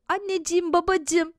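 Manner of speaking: put-on high, eager child's greeting; child delighted to see parents; relieved calling out. A narrator's reading. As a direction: call to mum and dad with relief. Boy greets returning parents.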